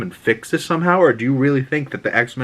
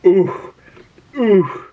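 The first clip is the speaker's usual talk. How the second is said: short, higher-pitched pained oohs; 8 semitones higher, 3 dB louder than usual. Retold or imitated. Viewer reacting to Magneto dying with Leech, pained. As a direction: wince out loud, twice.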